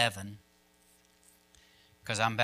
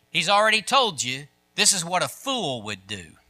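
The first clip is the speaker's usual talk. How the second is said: loud, raised-pitch sermon delivery; emphatic preaching; 7 semitones higher, 8 dB louder than usual. Real, not acted. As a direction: drive the point home to the congregation.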